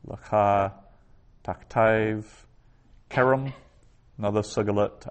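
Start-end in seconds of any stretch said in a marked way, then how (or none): 3.1-3.5 "kerem" stressed on "ke"; higher first syllable in "kerem", stressed. Shown as a demonstration. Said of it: "accent under the ke".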